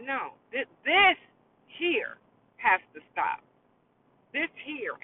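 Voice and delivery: imagined firm declaration, key words punched high; emphatic stand. Pretend. Mayor and candidates speaking out after a shooting, emphatic stand. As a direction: put your foot down as an imagined leader. Voices officials taking a stand.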